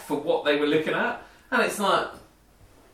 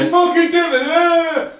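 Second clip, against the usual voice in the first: high, loud mock-angry yell at a device; rude barked order; 14 semitones higher, 6 dB louder than usual. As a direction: lose your temper at the gadget, hammed-up. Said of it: "they sound more assertive or rude".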